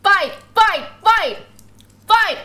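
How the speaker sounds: short, punchy, high chant; mock fight chant; egging on.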